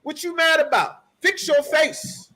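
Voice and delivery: mock telling-off, drawing out the last words; black man talk. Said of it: "This is black man talk".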